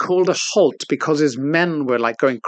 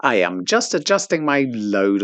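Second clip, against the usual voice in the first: lower, lightly voiced bin announcement; talking bin; 4 semitones lower than usual. Man imitates the self-compacting bin, machine announcement voice. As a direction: play a machine reporting its status.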